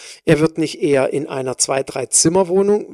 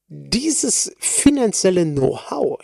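slow, with "finanzielle" clearly leaned on; stress on finanzielle; 2 semitones higher, slower than usual. Shown as a demonstration. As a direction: dwell on the word "finanzielle". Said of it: "ich betone ganz bewusst finanzielle Know-how". (langsam, Betonung deutlich auf „finanzielle“)

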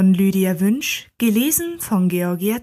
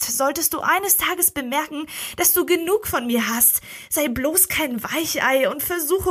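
put-on higher young woman's voice, stern and daring; Lila's voice; 6 semitones higher than usual. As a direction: Lila laying down hard rules, voiced higher. Lila's long demand, read aloud.

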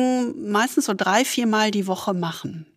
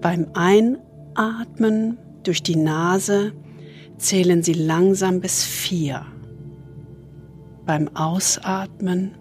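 soothing spa whisper; 4 dB quieter than usual. Acted. Leads a body scan meditation.

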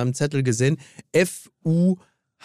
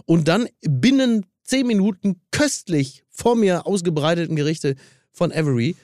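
talking round a candy; words round a sweet in the mouth; sucking a candy. Real, not acted. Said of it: "mit dem Bonbon im Mund".

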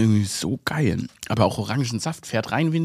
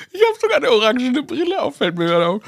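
excited; 12 semitones higher than usual. Real, not acted. Excited aside about orange glasses.

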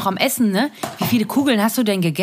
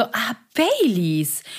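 wistful; much slower than usual. Retold or imitated. Nostalgic sigh.

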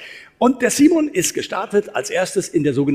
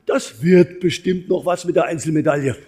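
upbeat fans. Retold or imitated. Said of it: "die Positiveren, die haben gesagt".

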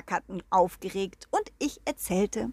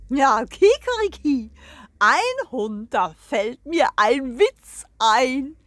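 crowing rooster voice, loud and pompous; proud rooster; 3 semitones higher, 5 dB louder, slower than usual. Acted. The rooster greets the hens and the guest, proud crowing voice. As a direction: strut and crow like a proud rooster.

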